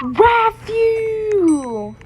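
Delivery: high, loud call across the room. Real, not acted. Gamer calling to a friend, loud call. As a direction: call the friend's name loudly.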